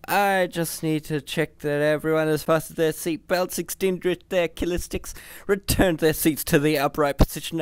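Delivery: high, cheery announcer computer; trilling happily. A narrator's reading. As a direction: trill it like a flight attendant. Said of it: "trilled the computer happily".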